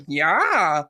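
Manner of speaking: drawn-out silly meme "Yeah"; catchphrase-style "Yeah", pitch swooping up and down; echoed vine voice. Shown as a demonstration. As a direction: stretch "Yeah" into a goofy mimicked cry. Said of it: "I'll just go".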